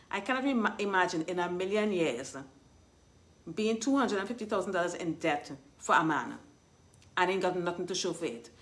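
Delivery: words slurred by a retainer; speaking with a retainer in; wearing a retainer. Real, not acted. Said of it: "I'm wearing my retainers".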